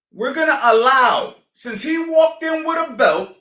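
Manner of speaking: builds to a loud indignant shout; rising rant. Real, not acted. Coach ranting at viewers, builds into a loud shout. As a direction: ramp it up into a real shout.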